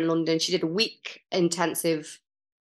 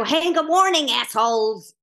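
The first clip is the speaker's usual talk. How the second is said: sassy greeting; 4 semitones higher than usual. Retold or imitated. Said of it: "Chicago sassy broad".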